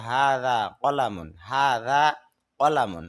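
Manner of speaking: "হাযা কলামুন" with Arabic sounds, slowly; Arabic pronunciation. Shown as a demonstration. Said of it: "তখন আরবি হবে".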